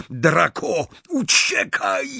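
high-pitched order to flee; urgent shout. A narrator's reading. Snape ordering Draco to run, shouting. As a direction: cry out, stretching the command. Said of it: "krzyknął Snape".

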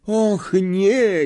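high-pitched moan of dismay; Neville. A narrator's reading. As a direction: groan it out high. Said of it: "jęknął Neville Longbottom".

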